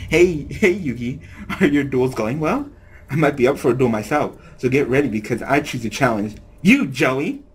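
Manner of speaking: a hint of a teasing woman's voice; light, playful challenge with a laugh; lightly voiced Mai. Reading Mai's challenge as Mai.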